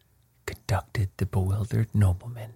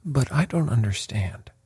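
higher-pitched, baffled protest; bewildered; 5 semitones higher than usual. A narrator's reading. Bewildered lord, after his gasp.

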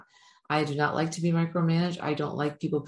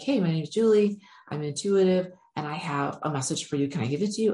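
barge in full of excitement; eager and excited. Retold or imitated. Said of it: "excited and you're like".

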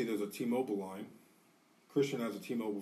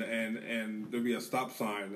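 normal talking voice

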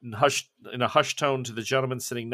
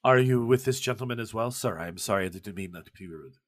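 put-on Pessoa's accent. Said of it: "shocked to hear another accent that isn't Russian".

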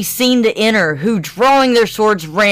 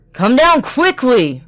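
loud, higher roaring command; 6 semitones higher, 4 dB louder than usual. A narrator's reading. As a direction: roar it at her. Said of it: "roared Bluebeard".

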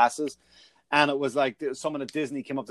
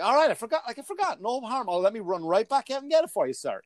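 sarcastic apology; 9 semitones higher than usual. Retold or imitated. Sarcastic reply to staring clerk.

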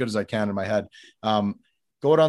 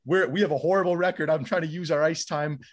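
higher-pitched, heated protest; retold blow-up; 5 semitones higher than usual. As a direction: plead your case in exasperation, re-enacting it. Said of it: "I kinda blew up on this guy".

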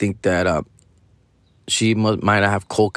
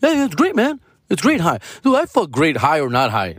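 much higher, hazy stoner yes-man voice; stoner friend; 10 semitones higher than usual. Retold or imitated. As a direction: ham up the pothead who just agrees. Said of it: "They just say".

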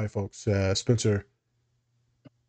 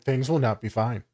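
deadpan doom under your breath; inner honest voice. Retold or imitated. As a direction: say it dry, the private truth. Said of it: "I'm like".

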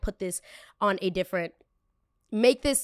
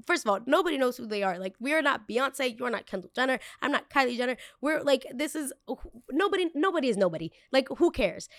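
higher, sassy dismissive rant; 5 semitones higher than usual. Retold or imitated. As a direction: brush her off with attitude. Retold rant at clerk.

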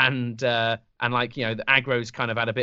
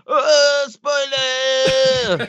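high, shouted villain cry; Illidan voice; 10 semitones higher, 4 dB louder, much slower than usual. Retold or imitated. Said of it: "He comes out and says".

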